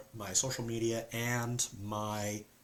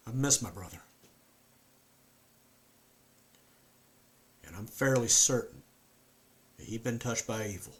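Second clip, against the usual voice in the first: a haunted Southern man; southern accent. Acted. Performs Luke with southern accent.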